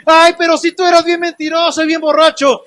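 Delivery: lightly voiced, scornful accuser; mock accuser. Preacher voicing an accuser reminding a believer of past sins, scornful. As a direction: sneer it like a gossip. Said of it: "quién te está acusando".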